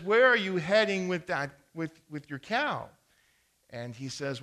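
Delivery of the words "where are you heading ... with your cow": louder, higher call down the road; farmer calling out. Acted. Farmer calling out to his neighbor passing with his cow, louder. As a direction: hail the neighbor friendly.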